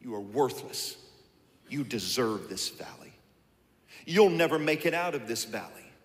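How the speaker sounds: soft, low taunting murmur; whispered lies. Acted. Preacher voicing the devil's lies, low and soft. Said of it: "Whispering in your ear".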